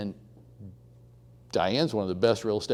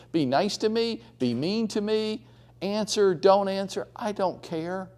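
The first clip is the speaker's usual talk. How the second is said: lightly voiced old lady, higher and defiant; a touch of a feisty Texas lady; 4 semitones higher than usual. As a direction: play her as unbothered and tough. Diane's self-talk voiced.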